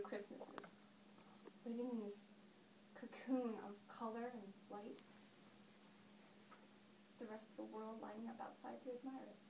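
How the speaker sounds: understated, reflective monologue delivery; lightly acted storyteller looking back; Daphne. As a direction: settle into the memory, pausing between thoughts.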